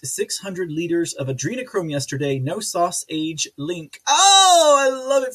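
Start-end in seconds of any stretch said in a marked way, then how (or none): 4.1-5.3 loud, high whoop of delight; gleeful cry sliding down from a high "oh"; delighted outburst. Real, not acted. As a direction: burst out, much higher and louder. Delighted reaction to chat joke.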